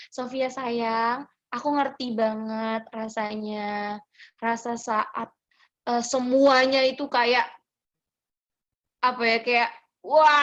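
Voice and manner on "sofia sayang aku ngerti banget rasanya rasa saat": tender comfort. Real, not acted. Comforts a struggling questioner.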